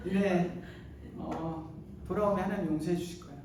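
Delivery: soft, fast, careless mumble; half-hearted preaching. Retold or imitated. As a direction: toss off the message as if it doesn't matter. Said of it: "설렁설렁 외쳤어요".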